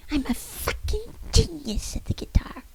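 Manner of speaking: high squeaky whispered protest. Acted. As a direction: squeak it out indignantly. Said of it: "Joe Leslie squeaked".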